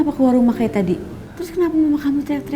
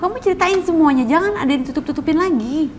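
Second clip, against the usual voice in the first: higher, pressing for the truth; insistent demand; 3 semitones higher than usual. Acted. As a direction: push him hard to come clean. Girlfriend demanding honesty in argument.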